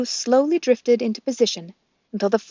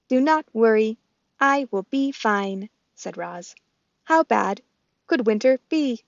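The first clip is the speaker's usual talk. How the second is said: robot voice; 4 dB louder than usual. Acted. Roz the robot speaks.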